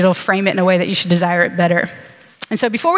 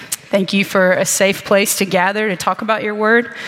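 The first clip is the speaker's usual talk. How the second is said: prayer; 3 semitones lower than usual. Acted. Opening prayer before sermon.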